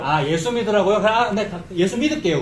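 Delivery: mock grudging compliance, lightly acted; argumentative back-talk. Preacher imitating the people told to return, argumentative back-talk. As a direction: concede while still arguing. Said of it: "라고 지금 따지고 있는".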